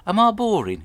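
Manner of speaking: high, loud whiny plea; a sad-sack husband fishing for pity; plaintive teacher. Retold or imitated. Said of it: "he says to his wife".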